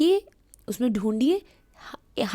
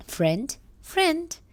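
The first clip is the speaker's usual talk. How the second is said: model word; 7 semitones higher than usual. Shown as a demonstration. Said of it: "which is friend".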